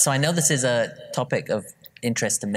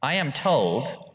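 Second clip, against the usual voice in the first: dad's voice; 6 semitones higher, much slower than usual. Retold or imitated. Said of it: "this is my dad now telling my mum".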